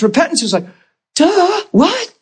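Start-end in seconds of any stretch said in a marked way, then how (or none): 1.1-2.1 high, mock-dim "duh, what"; a comic clueless voice; mock dumbfounded. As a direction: play the slow penny drop. Mock dull realization.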